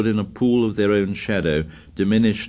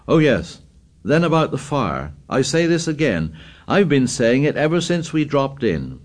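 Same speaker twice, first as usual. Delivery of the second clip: raised voice; 6 semitones higher than usual. Acted. Ralph raising his voice again.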